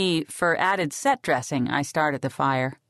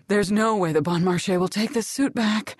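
Brandy's voice; 3 semitones higher than usual. Acted. Brandy speaks while bleeding.

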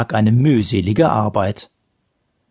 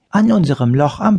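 serious; 6 semitones higher than usual. A narrator's reading. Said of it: "antwortete Olli ernst".

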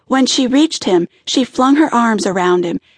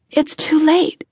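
babbling; 7 semitones higher than usual. A narrator's reading. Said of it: "she babbled".

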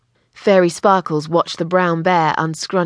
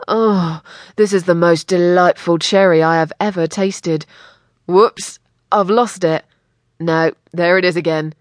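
words muffled under fabric. Acted. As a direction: talk as if smothered in cloth. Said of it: "his muffled voice said".

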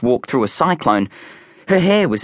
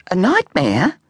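unimpressed; 8 semitones higher than usual. A narrator's reading. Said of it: "not impressed".

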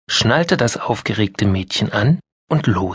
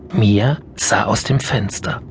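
usual speaking voice

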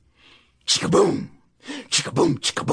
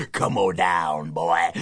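much lower, slow and sly; a monster coaxing its prey; slow low growl of the hairy man; menacing monster; 9 semitones lower, much slower than usual. Acted. Hairy Man lures Wally down.

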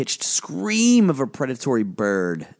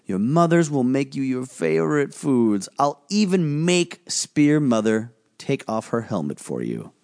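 put-on high, forceful spirit voice daring the boy; a looming spirit giving a last warning; menacing volcano spirit; 5 semitones higher than usual. Volcano spirit pressing Gus to choose, menacing.

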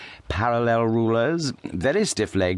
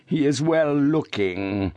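slow, deliberate words; father speaks slowly and distinctly; 6 semitones higher, slower than usual. A narrator's reading. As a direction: lay each word out carefully. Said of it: "slowly and distinctly".

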